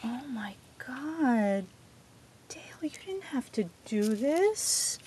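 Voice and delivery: breathless awed whisper. Real, not acted. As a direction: whisper it in disbelief. Opening gift, overwhelmed whisper.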